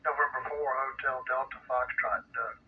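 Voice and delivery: weak crackly radio signal; fading in and out over the radio; radio room static. Real, not acted. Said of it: "in and out".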